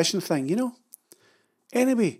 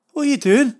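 higher, louder outraged yelp; 8 semitones higher, 5 dB louder than usual. Retold or imitated. Husband yelping at laughing wife, higher and louder. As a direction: cry out in stung outrage. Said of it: "I yelped".

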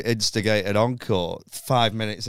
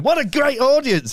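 very high, loud gushing; giddy Norm Macdonald; 12 semitones higher, 5 dB louder than usual. Retold or imitated. Comic who keeps praising the audience, giddy. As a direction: gush at the crowd, over the top. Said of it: "he's obviously in a giddy mood".

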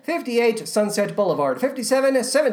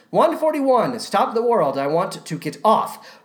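usual speaking voice

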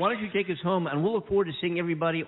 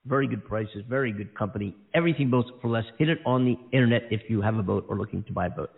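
ad read. Acted. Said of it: "How was that?".

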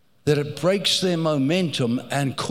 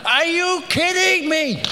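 incredulous; 11 semitones higher, 3 dB louder than usual. Real, not acted. Incredulous reaction to instruction.

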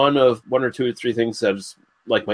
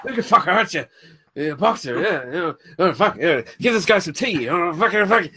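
higher-pitched mock Irish-gypsy accent; Brad Pitt's gypsy accent; 5 semitones higher than usual. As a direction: riff in a mumbled Irish Traveller brogue. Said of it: "I don't think I'm cool doing that accent".

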